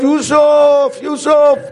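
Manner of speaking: calling Yusuf from afar; mock call for Yusuf; called out name. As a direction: call out to get his attention. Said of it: "رفت و داد زد".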